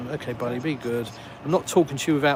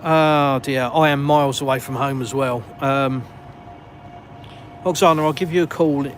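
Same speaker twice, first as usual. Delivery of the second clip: flustered dismay; 4 dB louder than usual. Real, not acted. Far from home, late.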